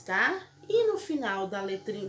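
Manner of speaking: ordinary talk, nothing marked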